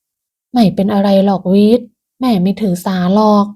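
smooth things over gently; gentle. Acted. Mother calming her son during a tense moment, gentle. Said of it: "จึงพูดแทรกด้วยน้ำเสียงนุ่มนวล".

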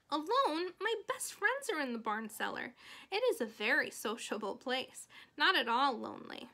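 lightly voiced child's protest, starting high; Fern, indignant girl. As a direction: object in disbelief, then insist. Voices Fern protesting she has friends.

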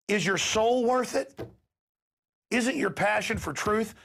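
high, slow moral challenge; impassioned appeal. Real, not acted. The host challenging police officers' conscience, impassioned. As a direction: press the question on their conscience.

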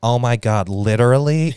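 a lightly mocking gushing guy; a hint of a gushing guy; mock texter. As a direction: quote the text in a hammed-up voice. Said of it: "and he was like".

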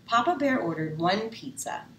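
plain reading voice

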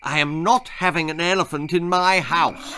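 firm mother. Acted. Mother refuses firmly.

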